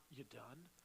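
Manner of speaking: short, dismissive "You done?" clipped into two quick words; curt impatient tone. Shown as a demonstration. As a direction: snap "You done?" like you can't wait to cut in. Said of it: "and watch your tone, it's not".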